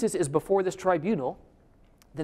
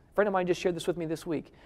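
ordinary talk

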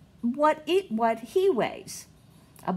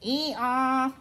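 donkey bray; 2 semitones higher than usual. Shown as a demonstration. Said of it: "make a donkey sound with it".

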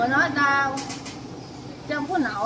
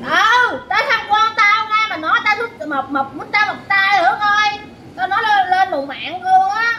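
higher-pitched, heated protest; real hollering complaint; 4 semitones higher than usual. Real, not acted. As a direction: argue back insistently, pitch raised. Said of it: "đừng có la làng". (la làng, cãi lại giọng cao)

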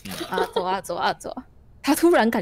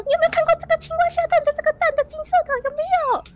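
much higher, calling out hard; shouting again. Acted. Traveler shouts his question up at the giant again. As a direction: shout the question up once more. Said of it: "他就再喊了一次说".

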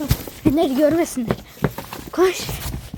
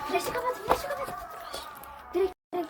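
high, soft, urgent hush; urgent hushed whisper; 4 semitones higher, 13 dB quieter than usual. Real, not acted. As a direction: hiss the order under breath. Urgent hushed order while hiding.

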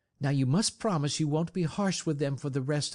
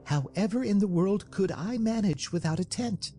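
high-pitched, dismayed protest; dainty dismay; 12 semitones higher than usual. A narrator's reading. Mercedes to men about leaving the tent, dainty dismay. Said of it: "in dainty dismay".

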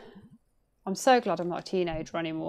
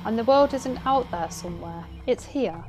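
lightly voiced aunt, higher and grave; stern aunt; 5 semitones higher than usual. Aunt cop warning her niece, lightly voiced. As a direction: warn her like a wary aunt.

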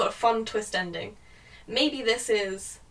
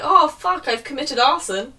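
mock sad Ben; 4 semitones higher, 5 dB louder than usual. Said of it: "he's so sad and he's like".

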